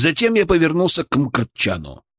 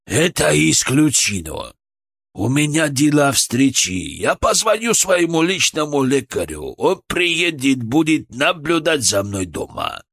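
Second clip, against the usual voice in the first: imperious; 2 semitones higher than usual. Acted. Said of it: "властная тональность".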